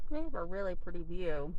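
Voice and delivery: talking while brushing teeth; words round a toothbrush. Real, not acted. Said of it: "Sorry, I'm brushing my teeth".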